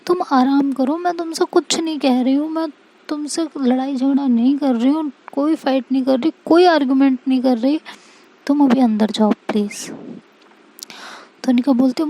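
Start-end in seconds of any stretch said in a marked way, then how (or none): 0.1-9.9 gently coaxing. Acted. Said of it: "प्यार से समझा रही होती है".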